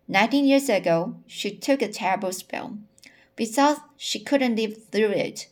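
expressive audiobook-style reading; story reading aloud. A narrator's reading. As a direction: read the character's confession aloud with lively emphasis.

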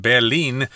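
"Berlin" said the German way, bear-LEEN; German pronunciation. Shown as a demonstration. Co-host showing listeners the local name, German pronunciation of "Berlin". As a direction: open first vowel, long ee in "Berlin". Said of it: "in German is pronounced".

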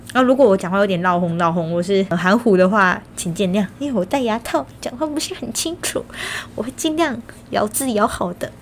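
speaking through braces, slightly mushy. Real, not acted. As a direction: talk with braces on, careful diction.

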